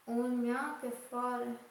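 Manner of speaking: speaking in Sicilian dialect; a few words in Sicilian dialect. Real, not acted. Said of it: "finisci di parlare in siciliano".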